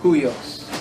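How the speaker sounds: "huios" begun with an English H sound; rough breathing. Shown as a demonstration. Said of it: "rough breathing mark is pronounced like the English H".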